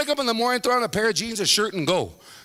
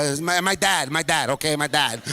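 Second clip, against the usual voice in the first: reluctant admission; 5 semitones lower than usual. Acted. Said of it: "should have been the first thing".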